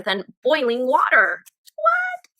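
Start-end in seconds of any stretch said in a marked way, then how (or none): 1.7-2.3 a sudden, very high squeak of disbelief; real astonished squeal; surprised what. Real, not acted. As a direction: react like the fact is hard to believe. Reader reacts to boiling-hot Mercury.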